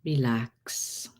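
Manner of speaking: breathy whispered relax; whispering. Acted. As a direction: whisper it softly. Whispered relax in session intro.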